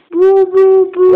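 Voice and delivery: playful boo. Real, not acted. Peekaboo with the baby.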